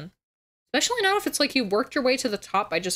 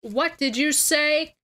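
Cartman impression; 4 semitones higher than usual. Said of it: "I used to be able to do Cartman".

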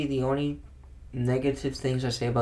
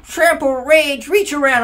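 much higher, loud and slowed right down; slow mocking keyword list; 12 semitones higher, 8 dB louder, slower than usual. Mocking the card rules to a friend, slow and sneering. Same, drawn out.

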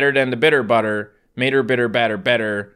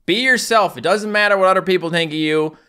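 inspirational dog quote; 7 semitones higher, 6 dB louder than usual. Retold or imitated. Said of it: "A random dog off the internet".

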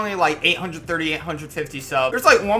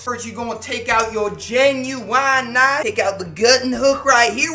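Southern hillbilly voice; 7 semitones higher, 7 dB louder than usual. Pretend. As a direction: play a rowdy redneck squirrel hunter. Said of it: "people from the South are funny".

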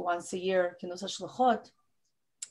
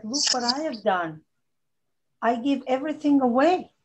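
pleading cry; 2 semitones higher, 5 dB louder than usual. Acted. Rachel pleading with God, retold.

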